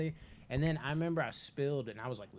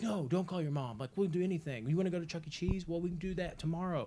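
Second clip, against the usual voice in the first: higher-pitched pleading grandma; imitating someone talking a kid out of it; mock anxious persuasion; coaxing; 4 semitones higher than usual. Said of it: "she kept trying to talk me out of it".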